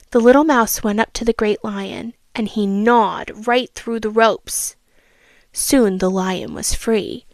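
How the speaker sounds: storybook reading voice; a child reading a fable aloud; story narration. A narrator's reading. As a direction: read it like a bedtime story.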